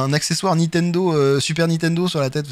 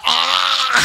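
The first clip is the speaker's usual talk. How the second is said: tongue held down saying aah; 10 semitones higher than usual. Retold or imitated. Mimics the patient saying aah.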